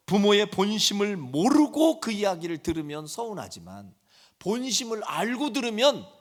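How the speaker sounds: usual speaking voice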